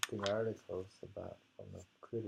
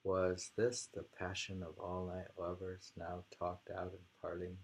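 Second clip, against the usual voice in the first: poem reading. Acted. Reads the poem aloud.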